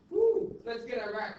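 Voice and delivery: hammed-up cheery war call; mock Bush. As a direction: toss it off like a gung-ho president. Teacher voices Bush mockingly.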